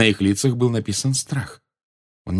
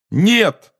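high, loud shout of protest; crying out; 12 semitones higher, 6 dB louder than usual. A narrator's reading. Harry protests at Dumbledore's confession, crying out. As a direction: burst out loudly, much higher. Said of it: "выкрикнул Гарри".

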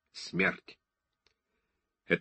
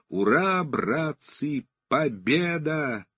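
triumphant cheer; 5 semitones higher, much slower than usual. Acted. Victory cry in daydream.

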